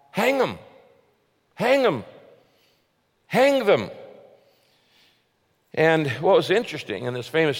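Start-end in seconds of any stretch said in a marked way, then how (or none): 0.1-3.9 high, loud chant of an angry mob; crowd shouting. Retold or imitated. The crowd yelling back at Lincoln, high and loud. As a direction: bark it back like a lynch mob. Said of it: "the unmerciful crowd shouted back".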